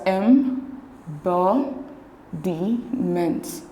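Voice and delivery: slow, split into syllables with pauses between; em, bo, di, ment, each part separated. Shown as a demonstration. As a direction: break it up as em... bo... di... ment. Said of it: "divide the words into syllables".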